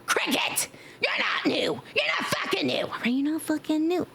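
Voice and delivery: high-pitched playful shout; mock yell. Yelling at a returning viewer.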